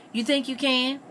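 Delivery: high, doubtful question; doubting. A narrator's reading. Bess questioning Richard's offer to help, doubting.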